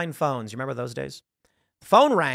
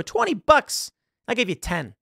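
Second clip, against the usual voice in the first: mock outrage; 7 semitones higher than usual. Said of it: "And then you go".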